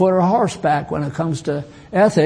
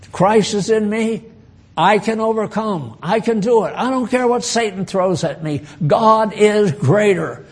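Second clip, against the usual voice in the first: a lightly voiced believer, a little higher, full of faith; confident overcomer; 4 semitones higher than usual. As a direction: sound sure you can beat anything. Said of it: "That's the way the overcomers talk".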